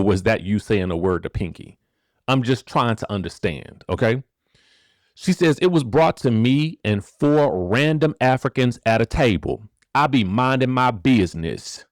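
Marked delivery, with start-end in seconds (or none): 5.6-11.8 lightly twanged Southern voice reading her tweet; a hint of country twang; a singer's twang. Reading a singer's tweet to viewers in a light twang. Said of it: "a little twang to the voice".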